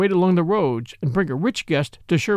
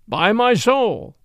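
merry exclamation; 5 semitones higher, 3 dB louder, much slower than usual. A narrator's reading. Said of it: "quoth merry King Richard".

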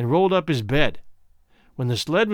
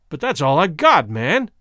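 cried out; 4 dB louder than usual. Acted. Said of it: "Womble cried out".

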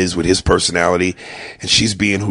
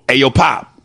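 street greeting; 3 semitones higher than usual. Retold or imitated. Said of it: "I'm a little street nigga from New York".

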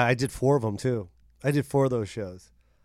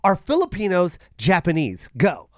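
mock Brittany; 3 semitones higher than usual. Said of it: "Brittany and her great questions".

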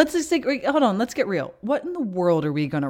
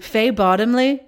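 slow, higher, louder Downton Abbey English; Downton Abbey accent; 5 semitones higher, 6 dB louder than usual. Pretend. Trying out a listener's name, Downton Abbey accent. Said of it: "a character from Downton Abbey".

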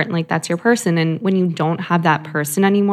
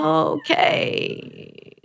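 whispered okay; 9 semitones higher, 4 dB quieter than usual. Retold or imitated. Retold partner's reply, whispered.

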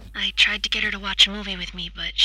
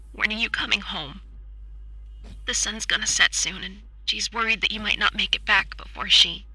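choked voice. Acted. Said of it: "in a choked voice".

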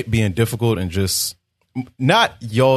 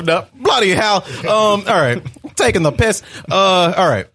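mock British accent; 9 semitones higher than usual. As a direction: ham up British slang to tease. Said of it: "you went from British to Australian".

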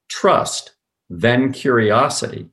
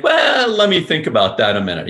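mock hesitant reply; 6 semitones higher, 4 dB louder than usual. Mentor who didn't stall over the question, mock hesitant. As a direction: imitate someone stalling to think it over. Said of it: "He didn't say, like".

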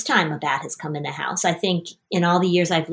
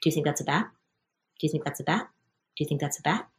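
soft, nagging worried question; wife nagging her husband about a bat; anxious murmur; 5 semitones lower, 10 dB quieter, much faster than usual. Retold or imitated. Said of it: "every five minutes I could say".

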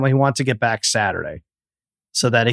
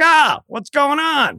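mock friend Brad; 13 semitones higher, slower than usual. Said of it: "He's like".

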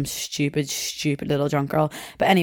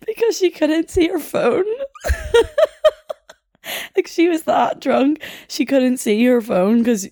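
real laughter breaking through, higher; laughing; 11 semitones higher than usual. Real, not acted. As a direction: fight the giggles through the line. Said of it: "I can't stop laughing".

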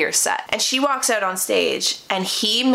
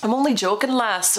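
lightly imitated Scottish lilt, badly done; attempted Scottish accent; 3 semitones higher than usual. Woman mimics her date's excuse, bad Scottish accent. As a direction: have a shaky go at a Scottish accent. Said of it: "I'm really bad at accents".

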